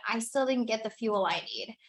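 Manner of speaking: whisper. Retold or imitated. Cells voiced as little people.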